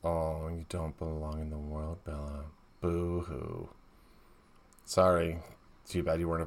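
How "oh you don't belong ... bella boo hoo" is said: mock sobbing boo-hoo; whiny fake-tearful mockery; fake crying. Mocking Bella's self-pity.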